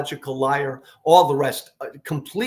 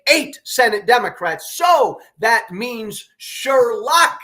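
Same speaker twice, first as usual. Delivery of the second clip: fired-up urging; 7 semitones higher, 4 dB louder, slower than usual. Real, not acted. Urging Democrats to use leverage.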